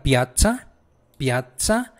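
piazza with a held tts; strong double z. Shown as a demonstration. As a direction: model piazza with a firm ts, rising at the end. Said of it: "la Z fuerte".

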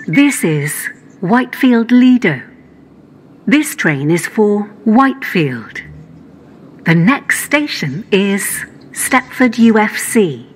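spliced together words. Acted. Automated train announcement stitched together.

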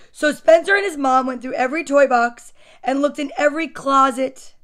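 put-on lightly animated reading to children; story narration. A narrator's reading. Storyteller recounts mother and son sorting toys, animated narration. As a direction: read it out with punched key words. Reads picture book aloud.

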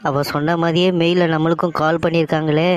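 mildly panicked wail to oneself; panicked lament. Acted. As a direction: lament as the bad news sinks in. Finds own layoff mail, panics. (பதற்றத்துடன் புலம்பல்)

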